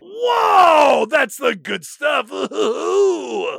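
loud, high whoa of a drug hit; hammed-up buzzed junkie; mock adrenaline rush. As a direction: shout it like the rush just hit. Quentin jabs adrenaline.

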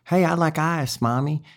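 high, stretched Memphis drawl; Memphis accent. Shown as a demonstration. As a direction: demonstrate a real Memphis accent. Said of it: "a real Memphis accent is more kind of".

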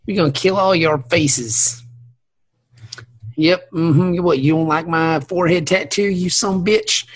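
menacing mock redneck; redneck guy. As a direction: pick a fight as a hammed-up redneck. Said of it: "the redneck guy".

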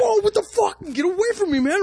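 very high, shrieking imitation of a spooked guy; mock startled guy. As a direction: yelp it like he jumped out of his chair.

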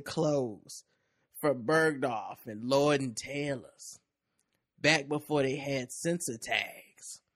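slow, drawn-out first-person storytelling; unhurried monologue with lingering pauses; story read in character. Acted. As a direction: tell it as her own story, savouring the phrase endings. Reads the woman's story aloud in character.

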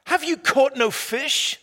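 calling across the water, loud and high. Acted. Jesus calling out to the disciples in their boat, loud and high. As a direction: hail the fishermen from the shore.

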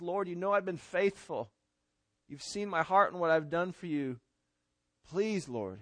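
mild, softened imitation of a bitter cry to God; retold tearful plea. Hezekiah turns to the wall and prays, retold tearful plea. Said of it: "he's crying bitterly".

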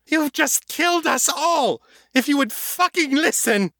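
vampire screaming at the men who set off the blast; furious shout. Acted. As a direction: let rip at the fools. Morgan raging at the men.

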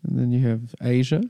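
put-on half-accidental Australian accent; casual mock British sliding into Australian. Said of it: "I don't know why I'm doing Australia".

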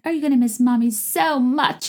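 a hint of put-on baby talk; Cameron mommy voice. Podcaster imitating a mom leaving for a trade show, mock mommy voice. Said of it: "she's like".

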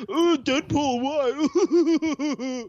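high, pleading nerd wail. Retold or imitated. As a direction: wail at Deadpool like a hurt fanboy. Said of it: "my impression of a nerd".

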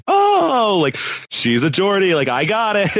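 mock lightbulb moment, starting very high; dawning realization. Acts out sudden understanding of accents.

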